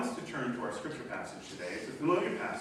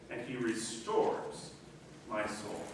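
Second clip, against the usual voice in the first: soft quote; 6 semitones lower, 6 dB quieter, slower than usual. Shown as a demonstration. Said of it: "psalm phrase re-read, soft and slow".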